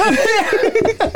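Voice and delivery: high calling voice. Pretend. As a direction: call them over from another room. Calling someone over.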